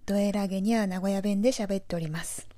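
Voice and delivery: lightly accented Nagoya speech; Nagoya dialect. Shown as a demonstration. Podcaster showing listeners how Nagoya folk would put it, Nagoya dialect. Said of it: "名古屋風に言うならば".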